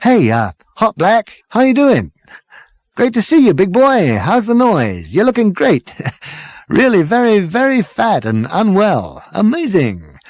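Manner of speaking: very high, loud, over-the-top cheer; gushing greeting. Acted. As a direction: hail an old mate with fake gusto. Ford greeting old mate.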